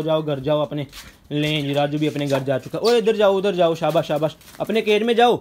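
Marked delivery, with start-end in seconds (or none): 2.8-5.4 urging call. Real, not acted. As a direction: raise the voice to herd him into the cage. Urging Raju back into cage.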